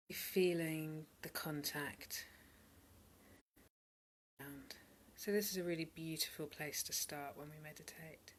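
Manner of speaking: calm, unhurried meditation guidance with long pauses; guided meditation. Real, not acted. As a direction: gently guide listeners into stillness. Leads a meditation.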